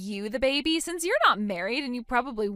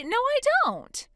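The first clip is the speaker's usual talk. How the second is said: scornful refusal; 12 semitones higher, slower than usual. Acted. Mother dismissing her baby.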